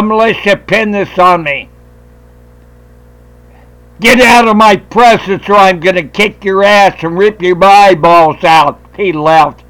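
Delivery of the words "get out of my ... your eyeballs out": retold threat.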